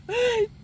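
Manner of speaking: high theatrical gasp; mock gasp. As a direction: gasp in pretend shock. Mock shock at being regular.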